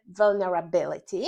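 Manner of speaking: vulnerability with the weight on "bi"; stress on -bility. Shown as a demonstration. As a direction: model "vulnerability" clearly, stressing the syllable "bi". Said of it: "zaakcentować właściwą sylabę".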